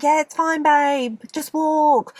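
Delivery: high, airy mock reassurance; breezy girls. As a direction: imitate a carefree girl brushing it off. Voices breezy girls in heels.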